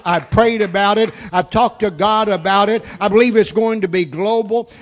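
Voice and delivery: loud, insistent preacher's testimony; forceful preaching. Real, not acted. Preacher sharing faith in a new venture, forceful preaching. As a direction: declare it loudly to the crowd.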